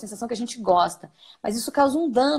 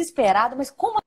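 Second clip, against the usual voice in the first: mock despair; 3 semitones higher than usual. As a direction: pretend to fall apart in panic. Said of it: "Aí você fica mais desesperado do que ele". (desespero exagerado de brincadeira)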